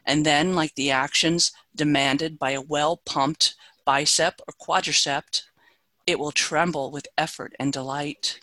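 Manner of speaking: measured, deliberate poem reading; poetry reading. Acted. Reads her own poem aloud.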